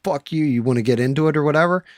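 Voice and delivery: high, loud, fast hostile yell; mock angry yell. New York guy snaps at the local, fast loud mock yell. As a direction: snap it out like a rude stranger picking a fight. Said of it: "the guy's like".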